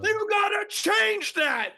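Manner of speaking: very high, slow, laughing creepy voice. Pretend. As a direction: drag it out very high like a spooky ghoul. Mock menacing demand, laughing.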